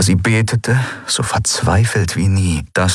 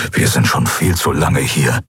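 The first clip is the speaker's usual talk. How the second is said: grumbled; 6 semitones lower than usual. Acted. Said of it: "brummte Keru".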